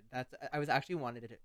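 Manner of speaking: fast, stumbling false starts; talking too fast. Real, not acted. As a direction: trip over the words in a caffeinated rush. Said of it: "I'm talking so fast now".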